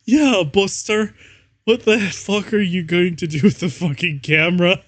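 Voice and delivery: high, loud put-on goth voice; mock angry vampire. Reader voicing the vampire yelling about the camera. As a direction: snarl it like a cartoonish goth vampire. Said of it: "Vampire shooted angrily".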